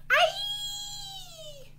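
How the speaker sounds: very high, long squeal; wrestler's cry. Pretend. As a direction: squeal like a feisty wrestling dragon. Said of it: "make that noise".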